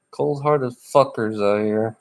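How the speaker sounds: chuckling through the words; laughing repeat. Retold or imitated. Repeating the phrase to chat, through a chuckle. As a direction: laugh as you echo the phrase.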